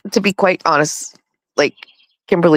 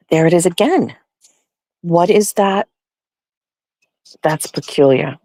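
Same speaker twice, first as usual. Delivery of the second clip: ordinary delivery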